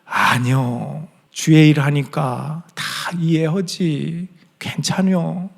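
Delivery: slow, lightly voiced old mother, understanding; a mother reassuring her busy pastor son; mother in Chungcheong dialect. Mother on the phone forgiving her son, slow and gentle. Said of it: "그럼 어머니가".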